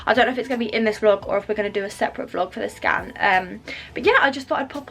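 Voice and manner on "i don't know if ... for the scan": winded, rushing the words; out of breath. Real, not acted. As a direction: talk while catching breath. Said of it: "I'm so out of breath".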